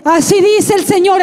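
re-enacted prophetic declaration; emphatic, solemn proclamation; prophesying. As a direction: declare it like a praying mother prophesying. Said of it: "empezó a profetizar".

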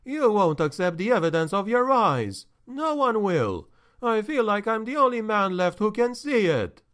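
high, despairing nervous man; lonely, hopeless pleading; anxious steward. Acted. Tachfel despairing.

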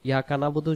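ইয়া কানা বলতু run together quickly; mistaken pronunciation. Shown as a demonstration. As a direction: say ইয়া কানা বলতু fast, with short vowels and no throat sound. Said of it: "বলতে এখানে কোনো শব্দ নেই".

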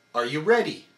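Are you ready with the hit on re; stress on re of ready. Shown as a demonstration. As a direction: contract the core on re. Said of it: "only on re".

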